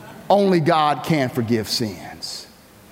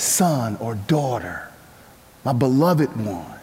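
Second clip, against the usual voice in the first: tender; 6 semitones lower than usual. Acted. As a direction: speak it like a loving father. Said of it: "with much tenderness and affection".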